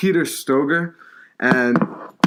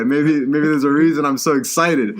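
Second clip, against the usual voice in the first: grinning through the words, barely holding back a laugh; smiling; 3 semitones higher than usual. Real, not acted. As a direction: say it with an audible smile. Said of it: "you can hear the smile in my voice".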